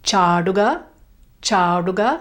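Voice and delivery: "chaduga" with a long, held ah and retroflex d. Shown as a demonstration. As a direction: draw out the first a in "chaduga", curl the tongue. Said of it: "Make sure it's a long ah".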